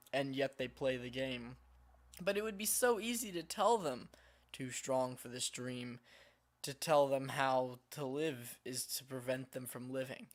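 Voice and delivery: measured reading with a slight British lilt; storybook narration, faintly British; light British accent. Real, not acted. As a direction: read it out with a hint of a British accent. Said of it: "weird British accent when I read these".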